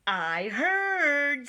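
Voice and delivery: high bird voice. A narrator's reading. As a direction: chirp it brightly like a bird. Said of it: "said the bird".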